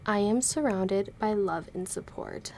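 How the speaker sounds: slow voiced and sincere; calm affirmation. Shown as a demonstration. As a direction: state it calmly and sincerely. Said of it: "this is the one".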